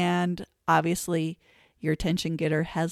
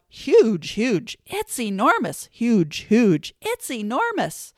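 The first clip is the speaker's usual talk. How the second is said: 1 big silly voice; 4 semitones higher, 3 dB louder than usual. Shown as a demonstration. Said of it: "They love silly".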